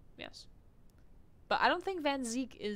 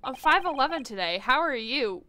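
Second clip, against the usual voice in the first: misspoken greeting; 6 dB louder than usual. Acted. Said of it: "I said, "How are you?".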